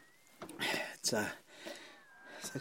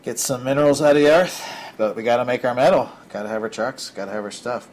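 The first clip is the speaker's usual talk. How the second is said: loud; 3 semitones higher, 17 dB louder than usual. Real, not acted. Rant about mining country.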